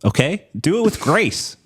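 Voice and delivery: mock pompous. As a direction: lord it over a friend, slowly. Mock-grand speech to cohost.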